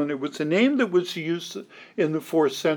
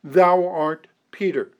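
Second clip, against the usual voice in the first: "Thou art Peter" in measured, separated words; emphatic. Retold or imitated. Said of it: "Jesus is saying emphatically".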